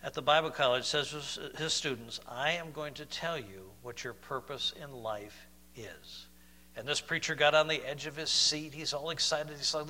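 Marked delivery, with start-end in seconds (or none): 2.3-6.3 lightly voiced lecturer, slow and softer; a hint of a professor's slow, low pronouncement; imitated professor. Professor telling his students life's purpose, lightly imitated, measured delivery. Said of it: "And the professor".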